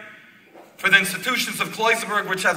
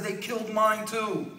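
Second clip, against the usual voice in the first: slow, softer, grieving answer; retold tearful reply; 3 semitones higher, 4 dB quieter, slower than usual. Rebbe shares the man's loss, understated retold tears. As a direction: imitate a tearful reply, drawn out and subdued. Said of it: "starts to cry and says".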